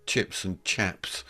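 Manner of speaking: imitated Glaswegian, chips turning to "chaps"; Glasgow accent. Shown as a demonstration. Showing how they say chips in Glasgow, Glasgow accent. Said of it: "as they say in Glasgow".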